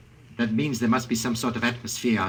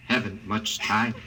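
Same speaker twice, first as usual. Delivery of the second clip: choked up; slower than usual. Acted. Husband urging wife, air running out.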